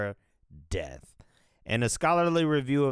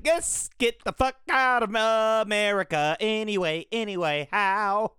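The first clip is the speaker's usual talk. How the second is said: high, loud exasperated mimic; hammed-up frustrated voice; mocking everybody; 10 semitones higher, 5 dB louder than usual. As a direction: imitate people wanting to flee. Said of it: "everybody's like".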